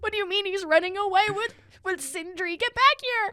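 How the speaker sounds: put-on high calling after a runaway kid; mock protective mom. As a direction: call him back like a worried mom. Mock mother scolding child.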